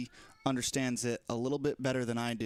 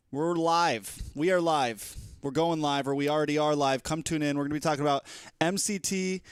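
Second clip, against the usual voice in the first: stream announcement. Acted. Recording a live announcement clip.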